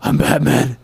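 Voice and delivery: mock Batman. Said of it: "he's mocking Christian Bale".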